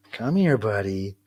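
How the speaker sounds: patient, unhurried coaxing; coaxing a pet. Real, not acted. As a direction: gently draw out the call to a cat. Coaxing the growling cat over.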